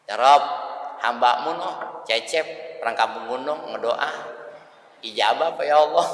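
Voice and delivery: a hint of a dutiful angel's report; Jibril reporting. Jibril reporting Cecep's prayer, lightly voiced and dutiful. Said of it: "laporan Jibril".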